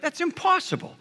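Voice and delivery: high, quick mock outrage; indignant protest. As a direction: lightly act the brothers' indignant denial. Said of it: "indignant at this guy".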